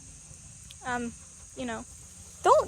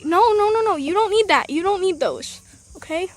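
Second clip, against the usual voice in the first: louder firm no to the hen; raised-voice scolding of a broody hen; 3 semitones higher, 4 dB louder than usual. Real, not acted. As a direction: tell the hen off, firm but kind. Scolding a hen over eggs.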